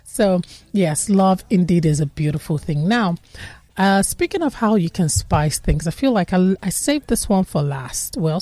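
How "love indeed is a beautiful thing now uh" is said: ordinary talk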